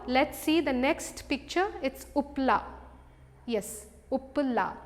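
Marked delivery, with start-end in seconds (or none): 4.1-4.7 slow model word. Shown as a demonstration.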